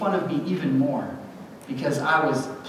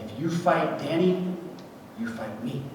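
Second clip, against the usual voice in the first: put-on quiet tough kid; 3 semitones lower, 5 dB quieter than usual. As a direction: calmly warn the bully. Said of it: "And he said".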